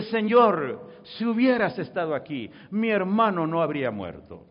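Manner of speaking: mildly anguished reproach, falling away; imitated tearful plea. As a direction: plead as Marta, a touch of grief. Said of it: "llorando le dice".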